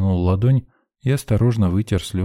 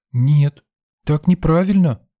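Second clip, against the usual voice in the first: put-on high, louder child's protest; stubborn little girl; 8 semitones higher, 4 dB louder, slower than usual. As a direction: refuse with childish firmness. Girl refuses firmly.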